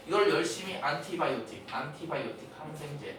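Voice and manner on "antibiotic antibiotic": "안티바이오틱" with every t sounded; by-the-letter pronunciation. Shown as a demonstration. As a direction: rote Korean-style "안티바이오틱". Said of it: "이렇게 외우면".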